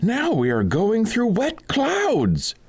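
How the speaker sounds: high, ringing call to the fools; high mocking cry to the two in the sack; mock-solemn cry. A narrator's reading. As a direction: cry out high and grand as if on a journey. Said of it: "he cried".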